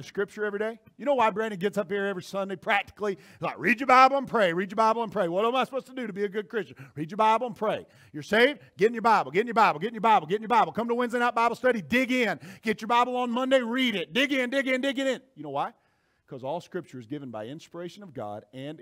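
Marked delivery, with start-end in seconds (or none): 3.6-15.2 rapid-fire repeated preacher's urging; insistent exhorting. Acted. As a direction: hammer each command, driving it home.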